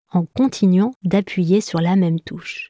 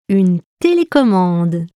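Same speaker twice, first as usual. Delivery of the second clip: exclaiming; 4 dB louder than usual. Acted. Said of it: "s'exclame Igor".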